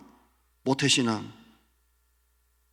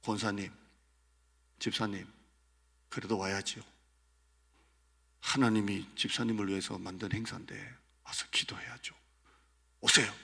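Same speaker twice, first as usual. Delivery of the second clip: grave, lowered pastor voice; serious pastor; 3 semitones lower, 4 dB quieter than usual. Retold or imitated. Pastor on the phone urging a sick member to come. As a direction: press them seriously, almost hushed. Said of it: "목소리가 심각해집니다".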